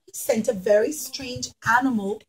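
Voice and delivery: usual speaking voice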